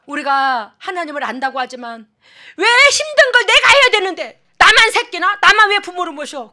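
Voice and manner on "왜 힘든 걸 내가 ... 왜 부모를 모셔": loud, high indignant outburst; a loud, high whining grievance; mock resentful complaint. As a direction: voice the grumbling daughter, loud and higher.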